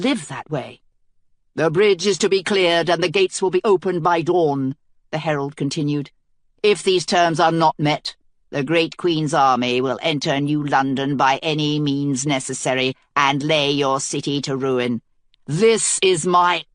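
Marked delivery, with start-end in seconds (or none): 1.5-4.8 a herald hailing the enemy queen from the walls; thick bass herald. Acted. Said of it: "his voice was a thick bass". 6.6-16.7 a herald hailing the enemy queen from the walls; thick bass herald. Acted. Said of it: "his voice was a thick bass".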